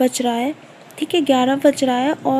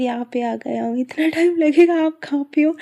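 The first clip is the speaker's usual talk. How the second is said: husband's phone reply; 3 semitones higher than usual. Retold or imitated. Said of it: "फिर".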